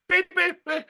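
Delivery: high, quick beep-beep of a heart starting; heart monitor beeps. Retold or imitated. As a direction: chirp the beeps up high and bright. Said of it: "she did that to Fiona".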